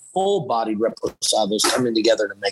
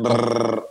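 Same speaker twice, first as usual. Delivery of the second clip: rolled r. Shown as a demonstration. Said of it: "I was pretty good at the brrr".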